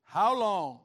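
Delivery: very loud, pleading shout; crying out to God. Acted. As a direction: hurl the question up at heaven. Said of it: "asking God this question".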